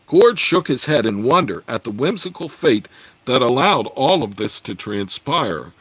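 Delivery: steady, measured reading of a fantasy novel; story narration. A narrator's reading. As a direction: read it like an audiobook narrator. Reads a fantasy novel aloud.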